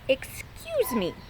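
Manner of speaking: slow, drawn-out pointed repeat; called slowly. Acted. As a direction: stretch it out to make the point. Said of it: "called Stumpy".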